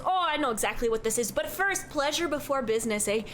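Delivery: lightly voiced chatty Midwestern barkeep; cheerful innkeeper who says don't you know; folksy bartender. Bartender introduces himself.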